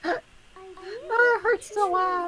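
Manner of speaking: high, crying with laughter; laughing through pain. Real, not acted. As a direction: gasp it out between laughs. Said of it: "this is hurting my sides".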